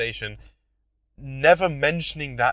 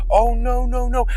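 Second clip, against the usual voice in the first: fake panic; 10 semitones higher, 7 dB louder than usual. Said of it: "I'm looking around like".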